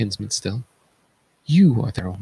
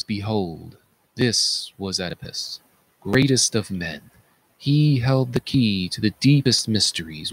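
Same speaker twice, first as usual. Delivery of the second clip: solemn choral ode. Acted. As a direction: proclaim the moral to Thebes.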